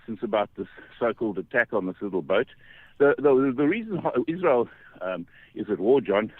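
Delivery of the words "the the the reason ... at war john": breathless from walking uphill; out of breath. Real, not acted. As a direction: talk while winded from the climb. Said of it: "I'm out of breath, I'm walking, up a hill".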